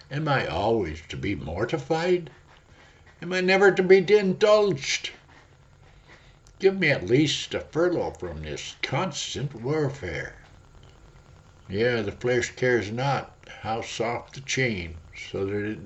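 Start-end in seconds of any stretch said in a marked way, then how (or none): 0.1-10.3 a begging cry for indulgence; lust crying out. Acted. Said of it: "lust cries out".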